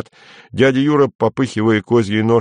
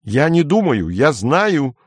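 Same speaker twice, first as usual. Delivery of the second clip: impatient; 7 semitones higher, slower than usual. A narrator's reading. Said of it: "нетерпеливо сказал Кенси".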